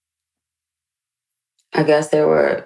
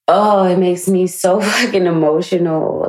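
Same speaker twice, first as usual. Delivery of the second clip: emotional laugh; 4 semitones higher, 4 dB louder than usual. Real, not acted. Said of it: "I'm so emotional".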